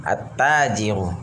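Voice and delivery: At-tajiru with the lam silent and the t doubled; lam assimilated. Shown as a demonstration. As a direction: go straight from the a into a held t in At-tajiru. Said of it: "langsung ke huruf setelahnya".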